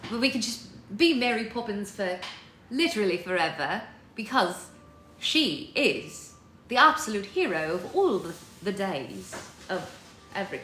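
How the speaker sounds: chatty British accent with theatrical flourishes. Shown as a demonstration. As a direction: keep up a playful British accent. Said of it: "hard to say that in a British accent".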